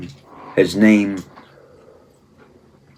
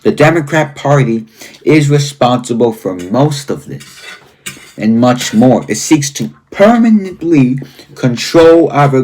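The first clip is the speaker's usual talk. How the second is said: emphatic read-aloud. Real, not acted. Host reading a book's warnings to viewers, emphatic and deliberate. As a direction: read each charge out as a grave list.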